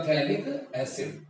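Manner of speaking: slow "थैलिक", starting straight on th; silent PH. Shown as a demonstration. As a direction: say "थैलिक" slowly with no f sound. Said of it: "पीएच जो है वो silent है". (धीरे से "थैलिक", पीएच silent)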